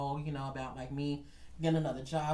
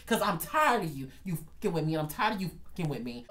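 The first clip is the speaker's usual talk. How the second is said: forceful, fed-up challenge; acted threat. Worker facing down his boss, forceful retold threat. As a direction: dare him, punching the opening words.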